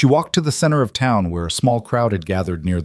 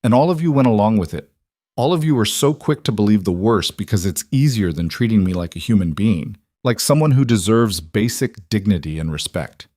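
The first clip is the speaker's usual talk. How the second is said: voice rising. Acted. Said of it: "her voice rising".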